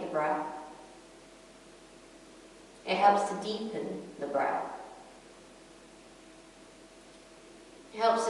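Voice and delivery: calm yoga teacher, unhurried with long pauses; guided breathing meditation. Acted. Yoga teacher guiding a class inward to the breath, calm meditation voice. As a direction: lead them gently through the breath, pausing between phrases.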